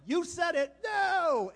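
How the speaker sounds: loud, high mock-stern refusal; booming acted-out "no"; emphatic refusal. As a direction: shut the plea down flatly and forcefully. Plays the refusal of his plea.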